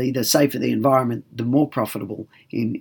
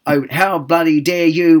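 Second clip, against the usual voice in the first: a touch of hammed-up indignant outrage; mock outrage; 3 semitones higher, 5 dB louder than usual. Shown as a demonstration. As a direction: briefly play the overly aggressive reaction. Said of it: "We're not getting overly aggressive".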